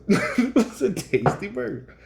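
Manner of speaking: high, hammed-up movie-gangster line through a laugh; mock-menace with a grin; Pulp Fiction gangster. Host echoing his friend's Pulp Fiction quote, laughing gangster voice. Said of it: "Pulp Fiction".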